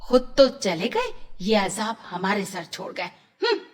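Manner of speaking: angry aunt. Acted. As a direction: scold the orphan girl with light sarcasm. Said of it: "चाची गुस्से से".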